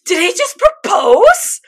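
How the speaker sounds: slowly, in disbelief; amazed disbelief. Retold or imitated. The viewer stunned at the proposal, slow and high. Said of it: "I was just like".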